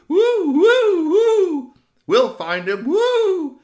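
high, loud hooting owl; Papa owl hooting high and loud to soothe Mama; owl hoots. Acted. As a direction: hoot like a worried papa owl.

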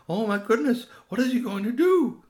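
high, loud owlet fretting; alarmed baby owl. Acted. Owlet watches the human kneel, high alarmed voice.

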